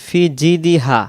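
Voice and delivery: "ফি জিদিহা" without held vowels; dropped elongation. Shown as a demonstration. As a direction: run "ফি জিদিহা" in short syllables. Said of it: "ইয়া অক্ষরটা এখানেও বাদ যাবে".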